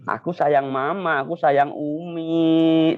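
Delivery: drawn-out, loving declaration; affectionate child's words. Shown as a demonstration. Ustadz shows children what to tell mama, affectionate and drawn out. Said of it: "bilang seperti ini nanti ya".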